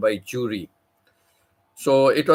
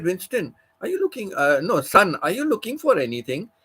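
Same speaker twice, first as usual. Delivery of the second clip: put-on old matron; 7 semitones higher than usual. Old matron asks lost boy.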